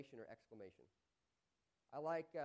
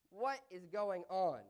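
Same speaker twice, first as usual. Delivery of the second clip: slow, much louder and amazed; astonished; 3 semitones higher, 12 dB louder, much slower than usual. Shown as a demonstration. Preacher acting astonished over the giant duck. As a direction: demand it in disbelief. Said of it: "a usage for astonishment".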